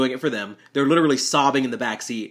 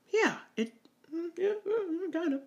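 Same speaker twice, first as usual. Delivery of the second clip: awkward joking reply; 7 dB quieter than usual. Retold or imitated. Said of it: "trying to be a little funny".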